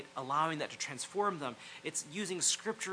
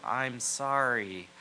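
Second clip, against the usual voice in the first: very slow apology; a husband's honest sorry; slow, sincere apology; 4 semitones lower, much slower than usual. Shown as a demonstration. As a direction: let each word of the apology land. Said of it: "the words I have to say".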